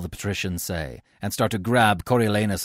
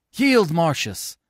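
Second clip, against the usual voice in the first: high, slow demand; crowd cry; 9 semitones higher, 4 dB louder, slower than usual. A narrator's reading. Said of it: "the citizens cry".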